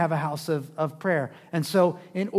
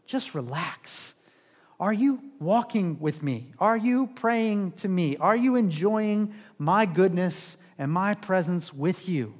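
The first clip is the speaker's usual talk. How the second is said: soothing each worried question; gentle reassurance; slower than usual. Acted. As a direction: ease them down like a calm friend. Voices Jesus calming anxious believers.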